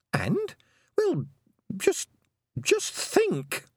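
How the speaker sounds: exasperated. Acted. Exasperated Tiffany.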